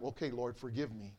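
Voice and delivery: soft, low, humble plea to God; quiet repentant prayer; hushed prayer. Retold or imitated. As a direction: pray it under your breath. Pastor retells his quiet prayer.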